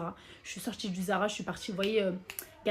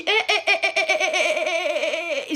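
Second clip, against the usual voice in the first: high, loud nervous laughter on eh; nervous laughing; 6 semitones higher, 5 dB louder than usual. Retold or imitated. Trying to escape the women, high nervous laughing eh. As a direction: laugh it off awkwardly. Nervous reaction while leaving.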